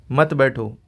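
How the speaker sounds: "मत बैठो" as one joined unit; मत बैठो said together. Shown as a demonstration. Teacher showing students which words go together, मत बैठो joined. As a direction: run मत straight into बैठो without a break. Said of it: "ये एक साथ कहा".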